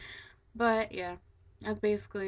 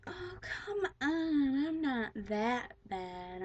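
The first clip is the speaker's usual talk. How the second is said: creepy guy; 5 semitones higher, slower than usual. Retold or imitated. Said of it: "And then he's like".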